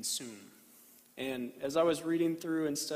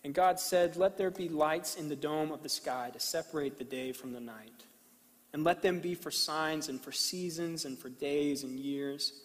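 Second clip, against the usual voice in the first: scripture reading. Acted. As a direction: read it with reverent pauses. Reads Genesis slowly to congregation.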